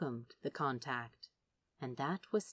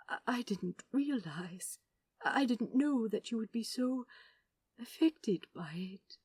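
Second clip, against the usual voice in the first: lightly voiced fussy angel, stammering in dismay; a hint of the apologetic angel, halting; crestfallen angel; 5 semitones higher than usual. A narrator's reading. The angel apologising to Crowley, lightly voiced and crestfallen.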